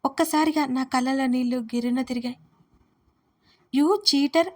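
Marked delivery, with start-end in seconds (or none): 3.8-4.5 loud, high cry of betrayal; angry shout. A narrator's reading. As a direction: yell it at him, hurt and furious. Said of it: "అని గట్టిగా అరుస్తూ". (మోసపోయిన కోపంతో గట్టిగా అరుపు)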